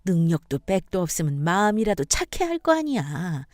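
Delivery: lightly voiced mother-in-law, indignant; a hint of an outraged elder; scolding mother-in-law. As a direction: tell off an insolent daughter-in-law.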